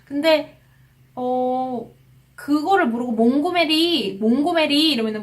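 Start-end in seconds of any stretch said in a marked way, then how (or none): 3.1-4.9 몽고메리 with 몽 and 메리 both stressed; higher, stretched 몽고메리, Korean style; double stress. Shown as a demonstration. Teacher mimicking those who don't know the stress, double-stressed. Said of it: "몽의 강세가 있고 메리의".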